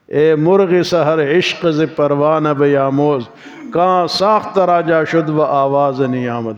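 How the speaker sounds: slow, measured poetic recitation; Persian verse recitation. Real, not acted. Preacher reciting a Persian couplet to listeners, slow recitation. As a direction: recite the couplet slowly, drawing out the line ends. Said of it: "فارسی کا شعر مجھے یاد آ رہا ہے".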